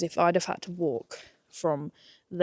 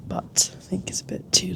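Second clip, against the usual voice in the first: whisper. Real, not acted. Sunburn aside, whispered.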